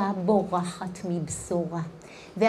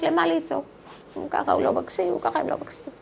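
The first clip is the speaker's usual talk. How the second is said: hushed, resigned imitation of women who gave up; resigned naysayers; 3 semitones higher, 5 dB quieter, much faster than usual. Imitating women who say why bother crying out, resigned and hushed. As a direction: murmur their excuse softly, half-voiced. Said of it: "מכירות את אלה שאומרות".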